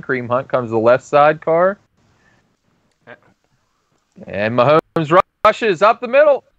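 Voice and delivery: rising excitement calling the run; play-by-play commentary. Acted. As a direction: broadcaster building to the hit. Mock play-by-play of game.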